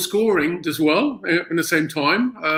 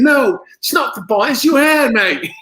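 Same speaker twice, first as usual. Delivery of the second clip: retold correction; 7 semitones higher, 4 dB louder than usual. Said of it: "I said".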